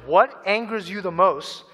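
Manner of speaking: What angers you the most asked slowly, each word weighed; slow question. Shown as a demonstration. Preacher putting the question to the congregation, slow and deliberate. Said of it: "Ask yourself the question".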